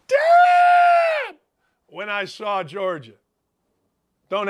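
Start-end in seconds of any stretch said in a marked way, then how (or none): 0.1-1.4 very high, loud yell; hollered damn. Retold or imitated. Host reenacting his reaction watching the team, yelling. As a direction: let it rip like a superfan. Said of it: "That's what I did there".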